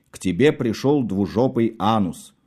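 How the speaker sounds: ordinary delivery, nothing marked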